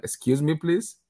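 affronted, girlish put-on British voice; girlish mock British accent. Fan mocking British pundits who praise Lampard, girlish attempt at British accent. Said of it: "I think you were impersonating a girl".

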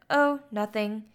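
mild, offhand dodge; casually evasive retold reply; brushing off. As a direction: play it down casually as an acted quote. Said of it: "brushes off the question".

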